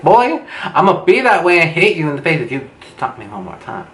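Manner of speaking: high, fast warning; sassy mock threat. Teller warning a pushy date to stop, mock angry. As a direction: fire off an indignant threat.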